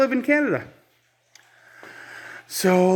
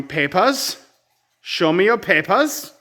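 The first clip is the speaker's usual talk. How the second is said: mock border guard; 4 semitones higher, slower than usual. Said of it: "like East West Germany".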